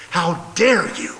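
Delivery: How dare you shouted high and loud; loud stress on dare. Shown as a demonstration. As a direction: raise the voice on dare.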